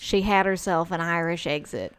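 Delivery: lightly put-on Southern accent; a hint of Southern twang. Joking with her co-host about Irish exits, light Southern accent. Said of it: "Southern accent".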